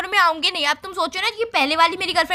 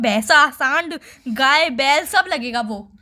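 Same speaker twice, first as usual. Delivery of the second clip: sarcastic slow list; 5 semitones lower, much slower than usual. Real, not acted. Girlfriend sarcastically listing animals.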